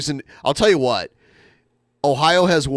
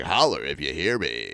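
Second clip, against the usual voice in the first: imitating Kendall; 9 semitones lower, 5 dB quieter than usual. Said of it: "he'll be like".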